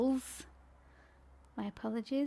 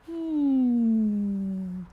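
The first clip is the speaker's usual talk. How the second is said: puffed out cheeks; 4 semitones lower, 5 dB louder than usual. Shown as a demonstration. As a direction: hum through puffed out cheeks. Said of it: "We're just gonna go".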